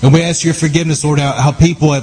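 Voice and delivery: preaching at full force. Real, not acted. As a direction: declare it boldly with full authority. Binding and rebuking witchcraft in prayer.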